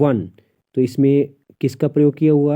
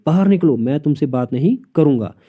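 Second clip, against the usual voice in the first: angry order. Shown as a demonstration. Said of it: "गुस्से से बोल रहा है उसको".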